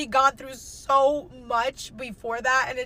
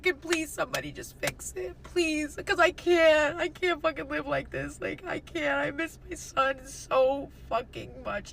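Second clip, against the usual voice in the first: retold desperate plea; 5 semitones higher than usual. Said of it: "calling my family".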